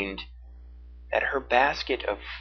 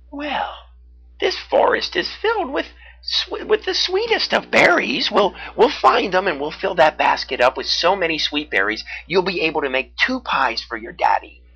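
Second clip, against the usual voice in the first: cheerful beaver voice; 7 semitones higher, 4 dB louder than usual. A narrator's reading. Beaver reassures her.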